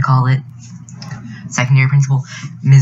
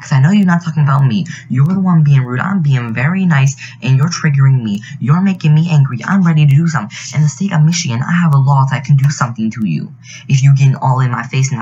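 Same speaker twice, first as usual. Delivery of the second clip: mild mock scream of protest; retold scream; 3 semitones higher than usual. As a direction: retell an indignant scream without really screaming. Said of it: "I screamed in her face".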